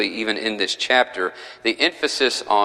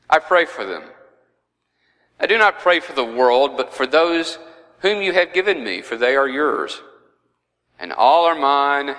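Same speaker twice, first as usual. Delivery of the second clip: measured Bible reading, slightly raised pitch; scripture reading; 3 semitones higher than usual. Real, not acted. Teacher reading Jesus' prayer to the class, scripture reading. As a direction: read the verses out clearly, phrase by phrase.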